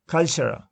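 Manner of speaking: "culture" said as CUL-ture, the first syllable strong; stress on first syllable. Shown as a demonstration. Teacher models "culture" for students, first syllable stressed. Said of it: "first syllable is stressed".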